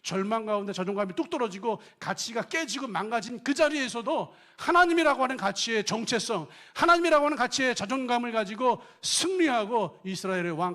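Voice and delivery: loud, high fervent sermon voice; full-force preaching. Acted. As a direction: press the question on the congregation.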